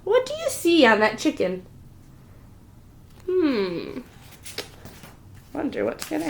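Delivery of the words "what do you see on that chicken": ordinary delivery, nothing marked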